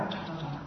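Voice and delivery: very soft, low imitated whooshing; fast spinning whoosh. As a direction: whisk the sounds out lightly, like something spinning. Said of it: "转是很快". (轻声模仿飞快转动)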